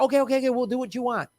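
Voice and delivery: hasty pretend surrender; mock caving in. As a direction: give in fast, imitating panicked appeasement. Acting Republicans caving in.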